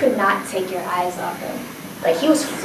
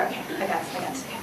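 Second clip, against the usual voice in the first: much softer, muttered to herself; nervous self-talk; 5 semitones lower, 14 dB quieter, much faster than usual. Retold or imitated. Girl psyches herself up before dancing, softly. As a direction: psych yourself up under your breath.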